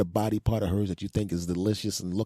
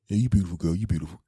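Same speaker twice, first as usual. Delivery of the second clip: offhand, dutiful praise; casual compliment out of obligation; obligatory compliment; faster than usual. Acted. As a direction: toss the compliment off as a routine. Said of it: "saying it out of an obligation".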